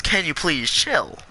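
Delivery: slow, polite retold request; patient, mildly pleading ask; nice request. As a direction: ask nicely, drawing out the words. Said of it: "I asked them nicely".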